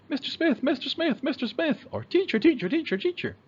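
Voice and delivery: high, insistent repeated calling; whiny child calling out. Retold or imitated. Boy pestering the teacher, high insistent calling. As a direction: nag the teacher over and over like an impatient kid. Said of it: "He doesn't just walk up and say".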